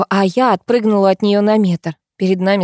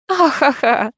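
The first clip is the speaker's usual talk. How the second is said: higher-pitched fake "ha-ha-ha"; mock laugh without any delight; put-on, humorless laughing; unenthusiastic laugh; 7 semitones higher, slower than usual. A narrator's reading. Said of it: "не выразила восторга Морозова".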